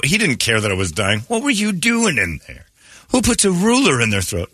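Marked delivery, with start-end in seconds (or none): 1.3-4.5 incredulous yell. Retold or imitated. Dad quoted yelling.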